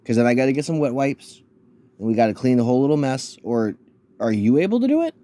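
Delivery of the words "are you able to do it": mock high baby-talk question.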